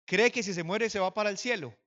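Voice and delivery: retold threat, hammered out loudly; robber's mocking threat. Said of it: "el hombre me decía".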